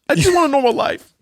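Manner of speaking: high mock-tragic whine; mock whiny braggart. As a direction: plead it like a spoiled star. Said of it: "imagine me like".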